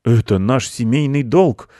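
solemnly announcing uncle mouse; proclaiming. A narrator's reading. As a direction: proclaim it like a family edict. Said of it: "провозгласил дядя".

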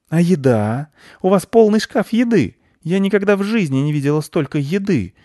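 a pushy, suspicious squirrel insisting. Acted. Squirrel accuses the children of hiding the nut.

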